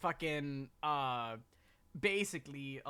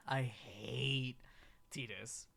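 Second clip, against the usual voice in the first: whisper; 4 semitones lower, 4 dB quieter, much slower than usual. Real, not acted. Confessing her pet hate.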